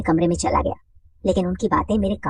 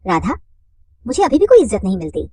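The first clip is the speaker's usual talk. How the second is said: lightly voiced woman; 2 semitones higher, 5 dB louder than usual. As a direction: lift the voice into a chatty woman.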